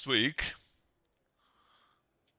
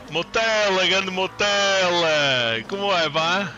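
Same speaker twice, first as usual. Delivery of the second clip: 1 excited greeting; 5 semitones higher, 4 dB louder than usual. Real, not acted. Greeting a Portuguese viewer.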